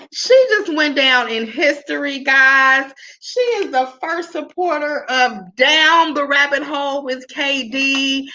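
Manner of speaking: high, thrilled and caught off guard; real delighted surprise, voice lifted high; excited surprise. Real, not acted. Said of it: "She just kinda threw me off with that".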